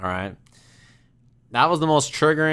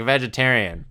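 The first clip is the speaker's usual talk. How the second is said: ordinary talk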